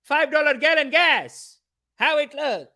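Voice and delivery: slow, high, loud scolding; hammed-up uncle shouting his objection; pissed-off uncle. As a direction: draw out each word in mock outrage. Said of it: "He was pissed".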